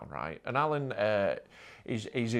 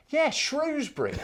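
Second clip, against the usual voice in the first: deadpan builder; 13 semitones higher than usual. Retold or imitated. Builder recognises him from bad gig.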